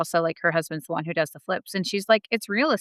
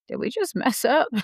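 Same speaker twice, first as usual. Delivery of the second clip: retold worry; 7 semitones higher than usual. Lying in bed, scared.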